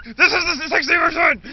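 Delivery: high, loud triumphant yell; maniacal shout. Retold or imitated. Dad in the story crowing over the operation in a loud mock yell. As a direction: crow it like a mad villain.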